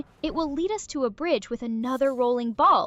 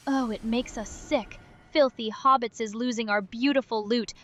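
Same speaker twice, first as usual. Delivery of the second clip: Gollum voice. Acted. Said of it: "Gollum puking and being disgusted".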